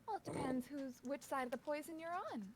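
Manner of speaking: sly character voice. Acted. Hemlock in character.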